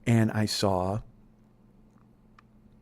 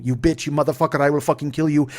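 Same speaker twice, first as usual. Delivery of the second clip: louder retold threat; mock scream; 4 semitones higher, 7 dB louder than usual. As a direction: shout the threat in a loud, high voice. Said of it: "he's like ... screaming at me".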